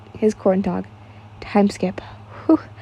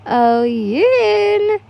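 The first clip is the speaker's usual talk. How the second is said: excited call; 10 semitones higher than usual. Acted. Inosuke bursts in calling out.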